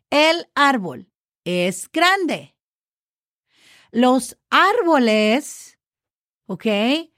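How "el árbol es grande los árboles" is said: slow, clear Spanish model; slow teacher demo. Shown as a demonstration. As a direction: lay the words out slowly. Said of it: "So same spelling".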